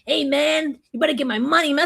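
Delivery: a hint of a tough Chicano accent, mildly voiced; light Chicano accent. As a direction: lightly play a Chicano tough guy demanding money. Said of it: "turn into a whole Chicano".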